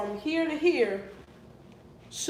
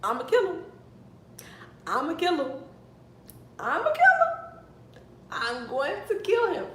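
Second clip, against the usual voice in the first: mad; 7 semitones higher than usual. Retold or imitated. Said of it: "I was so mad".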